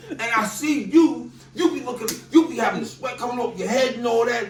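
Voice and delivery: high, loud teasing with laughter; laughing at the host's sweaty play. Real, not acted.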